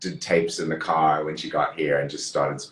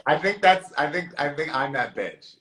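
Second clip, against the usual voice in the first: pitched up, giddy confession; high excited admission; 9 semitones higher than usual. Retold or imitated. Owning up to being the girl in the yearbook, giddy and high. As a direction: squeal it out like owning up with glee. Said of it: "And I was like".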